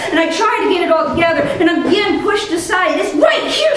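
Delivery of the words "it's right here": retold shout. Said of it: "she shouts".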